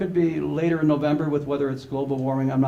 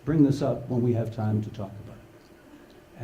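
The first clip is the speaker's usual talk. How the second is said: a hint of a parent lecturing, slowed and measured; parent's lecture voice; 6 semitones lower, 5 dB quieter, slower than usual. Trainer imitating a parent scolding a child, lightly lecturing. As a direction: talk down to the kid like your own parents did. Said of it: "same vocal inflection".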